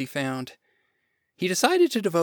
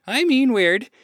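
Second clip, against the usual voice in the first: higher, louder correction; firm insistence; 9 semitones higher, 8 dB louder than usual. Acted. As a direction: stand by the word emphatically. Woman insists on her word.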